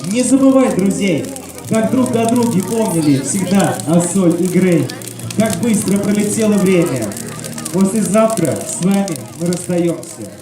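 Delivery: размеренно, напевно, как стихи; прочитай, как стихотворение у костра; чтение стихов. Acted. (декламация стихов)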